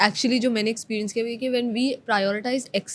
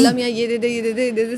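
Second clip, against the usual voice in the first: louder, rattling off demands to God; mock greedy prayer; 2 semitones higher, 5 dB louder, faster than usual. Host mocks selfish prayers, rattling off greedy demands. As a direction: parody someone begging for more and more.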